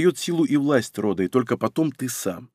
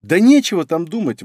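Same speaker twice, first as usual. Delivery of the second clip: impatient exclamation, a bit louder; exclaiming; 4 semitones higher, 4 dB louder than usual. Acted. Impatient fox girl exclaiming to her lord. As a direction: blurt it out, fed up. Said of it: "воскликнула она".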